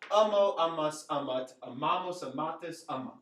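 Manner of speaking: rhythmic drill from "amo" to "amant", syllable stress marked; emphasis on correct syllable. Shown as a demonstration. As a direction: run through the conjugation, hitting the A of "amo" loud. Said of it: "put the emphasis on the correct syllable".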